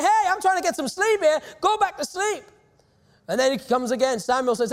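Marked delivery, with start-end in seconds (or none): 0.0-2.4 higher-pitched mock irritation at being woken; grumpy plea to be left to sleep, pitched up; irritated sleeper. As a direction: act out a mildly exasperated "let me sleep". Woken priest snapping in a story.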